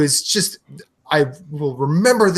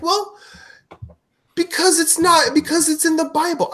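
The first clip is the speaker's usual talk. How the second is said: quoting dad; 13 semitones higher than usual. Retold or imitated. Dad quoted defending marriage ban.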